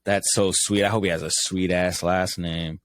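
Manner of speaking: normal talking voice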